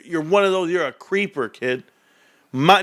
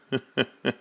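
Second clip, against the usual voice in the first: fake laugh; 5 semitones lower, 7 dB quieter than usual. Shown as a demonstration. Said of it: "That's my fake laugh".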